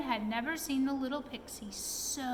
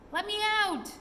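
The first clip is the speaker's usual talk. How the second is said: much higher, louder repeated shout; furious shout; 9 semitones higher, 4 dB louder than usual. A narrator's reading. Trapped pixie hammering on the door, higher furious shout. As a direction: shriek it again, even higher. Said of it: "was shouting".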